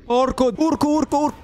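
high, frantic repeated yelps; real panic. Real, not acted. Player terrified by the horror game, panicked yelping. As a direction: blurt it over and over in fright. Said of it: "mi fanno una paura".

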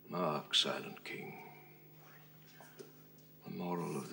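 slow verse with long pauses; soft, broken-up phrases, each left hanging; quiet, weighty stage delivery; grieving Shakespearean king. Acted. Actor performing Richard II scene.

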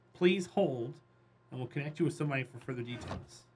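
hold-line sales script; brisk scripted telemarketer sign-off. Pretend. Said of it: "I sound like a telemarketer".

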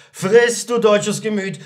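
high, loud order; bossy command. A narrator's reading. Companion orders the lovesick journeyman to eat, bossy. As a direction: burst out high and loud on the first word.

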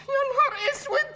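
high, wailing half-laughing cry; a comic wail of horror; panicked dismay. Acted. Son realises the car was left at the court, wailing in panic.

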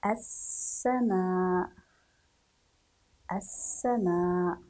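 "السماء" slow, with a long hissed s; writing-pace dictation. Shown as a demonstration. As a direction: dictate "السماء" stretching the first s and last aa. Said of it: "نحاول أن نكتب". (إملاء "السماء" ببطء مع مد السين)

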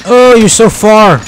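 slow, sing-song tease; teasing call. Real, not acted. Gamer teasing a teammate who is far away, slow tease. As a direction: tease them for lagging behind.

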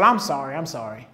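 low, fading sorry; mocking a habitual offender's weak apology; meek apology. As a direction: mumble the apology meekly. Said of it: "every day said".

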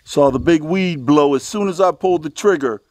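ordinary delivery

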